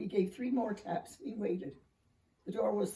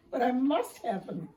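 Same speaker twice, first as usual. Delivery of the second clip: high, louder pleading bark; barking plea; 5 semitones higher, 6 dB louder than usual. A narrator's reading. Little dog begging for the stockings, high and louder. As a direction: plead hard and loud. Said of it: "barked the little dog".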